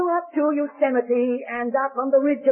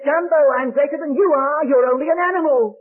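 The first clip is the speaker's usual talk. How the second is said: put-on cheeky little boy; 2 semitones higher, 3 dB louder than usual. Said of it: "the cheeky little fellow looks down and says".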